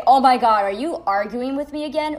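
a loud "Oh my God" then a mocking exasperated whine; mocking her boyfriend's loud exasperation. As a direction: imitate him exasperated, blurting loudly. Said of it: "he would say".

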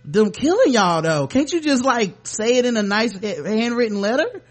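high-pitched mock pleading; mock complaining. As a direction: plead as if protest were a nuisance. Mock complaint of those upset at protest.

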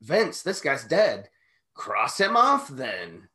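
slow, drawn-out mock dialogue; acted-out meeting. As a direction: act out a slow exchange with the boss. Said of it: "and they're like".

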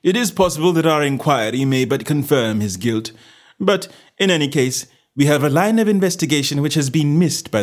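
detective rousing his companion to action; resolute detective. Acted. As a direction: lay out the case briskly, then call the march. Holmes rallying his companion.

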